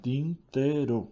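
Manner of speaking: "tintero" lento, marcando tin... te... ro; separado en sílabas. Shown as a demonstration. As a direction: di "tintero" despacio, golpe de voz por sílaba. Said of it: "tiene tres". ("tintero" silabeando lentamente)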